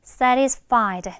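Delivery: "satisfied" as SA-ris-fied, slowly modelled; t weakened to r. Shown as a demonstration. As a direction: turn the t in "satisfied" into a light r. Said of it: "요런 식으로 발음해주면".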